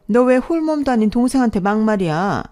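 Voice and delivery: loud indignant outburst; angry rebuke. Acted. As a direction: snap back in outrage. Stepmother defends daughter in quarrel.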